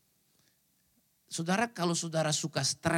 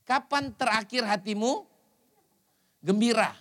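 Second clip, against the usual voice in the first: 1 slow probing question; 2 semitones higher than usual. Shown as a demonstration. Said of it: "Coba saya tanya sama saudara".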